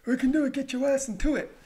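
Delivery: high, loud motivational yell; hyped-up shout. Acted. Vlogger urging viewers through last myths, high hyped shout. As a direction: shout it like a hype man. Same chant repeated in put-on voice.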